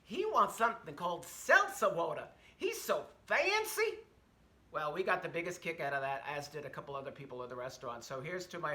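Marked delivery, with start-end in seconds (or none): 0.0-4.0 sassy Southern jab at the customer; waitress telling a coworker about the fancy customer, Southern accent. Retold or imitated. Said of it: "loud as can be".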